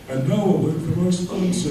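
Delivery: lightly voiced announcer. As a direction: imitate a kid playing radio announcer. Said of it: "I would be the announcer because I had the deep voice".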